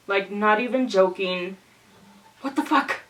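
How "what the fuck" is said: higher-pitched, acted-out disbelief; shocked disbelief. Retelling the missing water to viewers, shocked. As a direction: replay your shock at the news.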